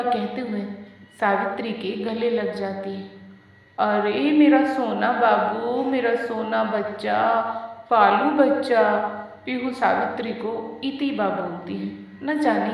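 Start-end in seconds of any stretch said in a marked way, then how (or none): 3.8-9.1 put-on cuddle a toddler with your voice; baby talk.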